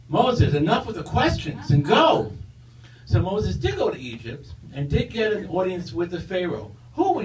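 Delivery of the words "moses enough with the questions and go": booming voice. Acted. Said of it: "a booming voice says".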